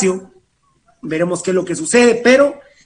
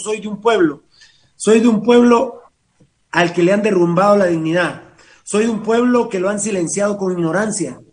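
poem recitation. Acted. Host reads a listener's poem on air, declaiming. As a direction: recite in measured phrases, pausing after each line.

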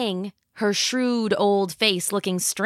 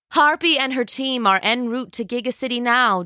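scheming villain queen; 4 semitones higher than usual. Acted. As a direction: savor every word like a tyrant. Villain announces plan.

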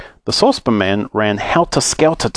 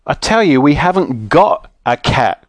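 mildly exasperated, slowing for emphasis; quite cross; 3 semitones higher than usual. Acted. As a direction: spell it out crossly, starting higher. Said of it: "feeling quite cross".

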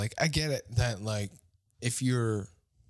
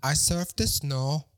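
lightly put-on Danish surfer, drawn out; mock Danish accent; 3 semitones higher, slower than usual. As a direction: imitate a Danish surfer talking slowly. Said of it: "he comes from Denmark".

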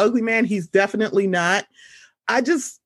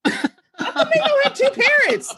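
put-on childlike question.

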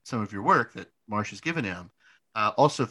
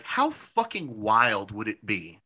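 laughing; 3 semitones lower, slower than usual. Real, not acted. Marvelling at a dream job.

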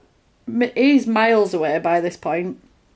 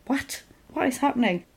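higher, hushed disbelief; mock bafflement; 4 semitones higher, 5 dB quieter than usual. Husband baffled by wife's phone call, mock bewilderment.

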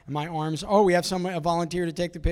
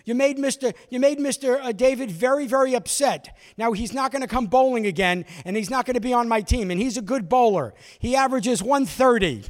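loud, high nagging aunt; aunt scolding from behind, loud and high; 6 semitones higher, 5 dB louder than usual. Retold or imitated. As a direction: nag him loudly and high.

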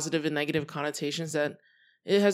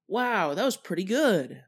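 higher, genuinely impressed pretty good; impressed, positive; 4 semitones higher, 4 dB louder than usual. Shown as a demonstration. Showing the positive way to say pretty good, impressed. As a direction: say pretty good like it beat expectations. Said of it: "the first way to interpret it is the positive way".

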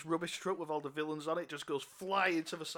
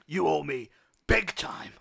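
menacing whisper; 7 dB louder than usual. Acted. Captain warns cop.

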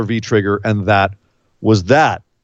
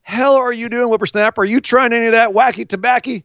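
put-on high, cranky old-timer voice; old prospector; 7 semitones higher than usual. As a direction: play a grumpy grandpa scolding a kid. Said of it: "they'd be like".

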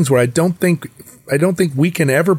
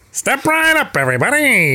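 high Mid-Atlantic carnival barker; 10 semitones higher than usual. Retold or imitated. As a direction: call the crowd like a barker. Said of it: "Mid-Atlantic component ... sort of like".

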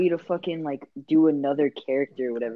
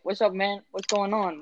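lightly put-on, bad Indian accent; a hint of a badly faked Indian accent; shitty Indian accent; 4 semitones higher, 3 dB quieter than usual. Gamer re-enacting his walk-up prank on a stranger, mock Indian accent. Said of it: "like, a fucking shitty Indian accent".

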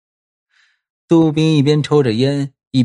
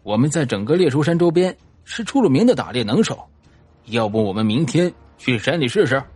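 out of breath. Acted. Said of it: "一边喘气一边说".

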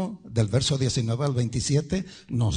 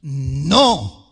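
Juan; 6 dB louder than usual. Acted. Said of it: "le dijo Juan".

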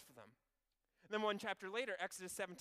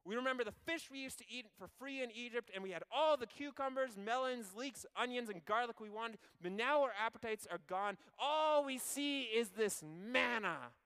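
high, louder whine, dragging the end; whiny complaining; 5 semitones higher, 4 dB louder than usual. Acted. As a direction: pine for Egypt's food like spoiled kids. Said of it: "they complained".

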